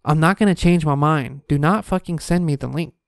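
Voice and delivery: a retold stern no to a pushy saleswoman. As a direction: shut her down flatly and firmly. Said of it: "I literally was talking to her like this".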